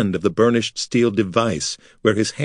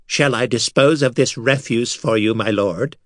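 servile wizard. A narrator's reading. Servile wizard offers to kill.

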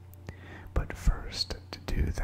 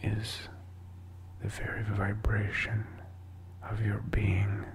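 whispering. Real, not acted. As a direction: whisper it all, unvoiced and intimate. Whispers the whole talk.

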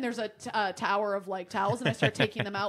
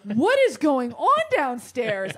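confused; 3 semitones higher, 5 dB louder, slower than usual. Retold or imitated. Confused echo with laugh.

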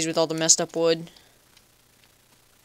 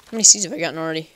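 quick question, voice cracks; 4 dB louder, much faster than usual. Real, not acted. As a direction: voice cracking mid-question, fast. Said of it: "Oops, voice crack".

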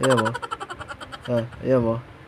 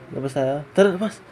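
excited invite; 7 dB louder than usual. Acted. Inviting dog outside excitedly.

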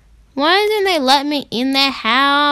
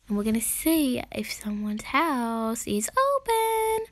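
whisper; 8 dB quieter than usual. Real, not acted. Sneaking up to rob houses.

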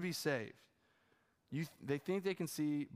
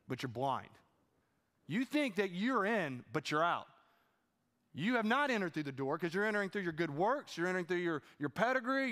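stern rebuke. Acted. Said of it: "and he says".

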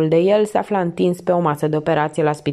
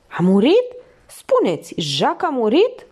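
higher-pitched anxious questioning; distressed outburst; 6 semitones higher than usual. A narrator's reading. Felicie hearing of Jacques's accident, bursting out in alarm. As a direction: burst out, demanding to know. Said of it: "izbucni ea".

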